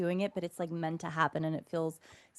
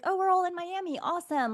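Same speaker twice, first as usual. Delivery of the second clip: retold excited greeting; 9 semitones higher than usual. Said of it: "we're like".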